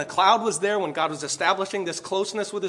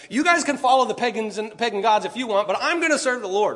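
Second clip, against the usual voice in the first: raised, higher voice imitating an exasperated leader; half-yell a defiant declaration to the people; mock yell at crowd; 4 semitones higher, 4 dB louder than usual. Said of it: "Joshua having to yell at the people".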